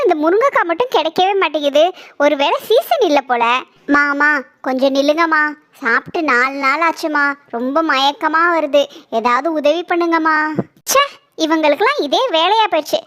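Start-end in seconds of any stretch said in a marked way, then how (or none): 4.0-10.4 put-on lower, weak pleading old voice; hungry old woman begging a passer-by, weak and pleading; old beggar woman. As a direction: beg faintly, dizzy with hunger.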